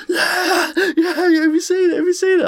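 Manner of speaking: squeaky manic man showing off his bike; imitating a high-on-spice guy; crackhead voice.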